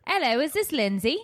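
a touch of British on the greeting; mock British accent. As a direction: play a chirpy British host, lightly. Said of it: "do a British accent".

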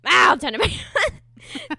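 high, loud and slow, hammed-up caving; sheepish giving in. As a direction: drag it out as you give in. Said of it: "I was like".

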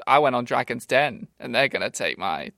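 brag, then squeak up on my idea; overexcited wannabe inventor bragging; boastful inventor. Acted. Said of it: "the sort of shitstar".

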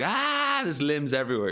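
high mock-horrified yelp, then easing; hammed-up scream of alarm; horrified cry. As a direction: act out horror at a gory ad. Retelling horrified reaction to ad.

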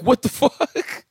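high, slow laughing what the; laughing disbelief. Retold or imitated. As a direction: crack up in disbelief at the kid. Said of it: "like, laughing 'cause I'm like".

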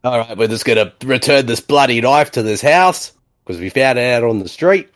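light Australian accent; casual Aussie accent. Real, not acted. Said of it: "speaking with an Aussie accent".

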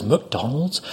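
quiet, incredulous question; mock disbelief. Angry customer hearing of waiter's fast-food job, quietly incredulous. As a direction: query MCDONALD'S softly, as if misheard. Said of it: "she got mad at me".

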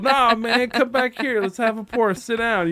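loud, high outburst with a cry in it; a bartender shouting across at a friend; laughing shout. Retold or imitated. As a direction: bellow it, half laughing. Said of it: "he's like".

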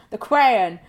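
"The Crayon", Crown said as cray-on; mispronounced Crown. Retold or imitated. Repeating the dad's word for the series, "Crayon" for Crown. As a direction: land on "Crayon" as the dad says it. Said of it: "He was talking about The Crown".

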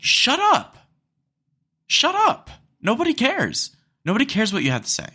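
high, loud yell; angry shout. Real, not acted. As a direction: shout them down in frustration. Rant at excuse-makers.

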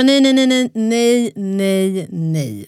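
distraught crying out. Retold or imitated. Mother told of triplets, crying out no in panic. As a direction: let the panic spill out, then die away. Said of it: "Alltså jag grät".

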